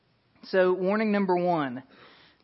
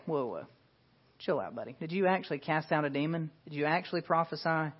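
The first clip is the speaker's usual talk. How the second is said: softer, quick aside in mock disbelief; mock skepticism; 5 dB quieter, faster than usual. Preacher imagining Jesus challenging their claims, mock skeptical. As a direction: toss it off softly, like a casual challenge. Acts out doubt Jesus doesn't voice.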